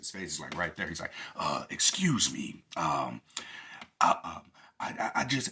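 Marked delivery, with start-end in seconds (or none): 1.4-5.5 put-on sermon-style preacher delivery, louder. Imitating a TikTok speaker who talked like a preacher at church. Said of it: "he talked kinda like a, a, a preacher at church".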